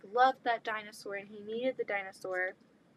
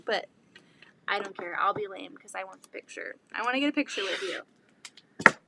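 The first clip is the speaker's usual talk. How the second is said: ordinary talk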